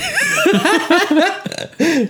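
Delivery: a sudden squealing laugh; high burst of laughter. Real, not acted.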